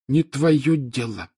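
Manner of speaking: put-on slow, high, cutting ghost-girl voice; curt ghost child. A narrator's reading. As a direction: cut him off, huffy. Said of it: "отрезала Миртл".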